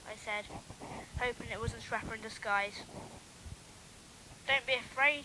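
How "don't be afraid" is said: put-on a mild Irish accent, leaning on "Don't". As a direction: say it again in a light Irish accent. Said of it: "in his Irish accent".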